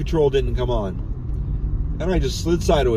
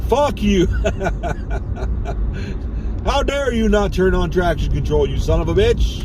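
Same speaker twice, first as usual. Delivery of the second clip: higher mock yell at the car computer; 5 semitones higher than usual. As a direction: shout it out like you're scolding the machine. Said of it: "just yell at the computer".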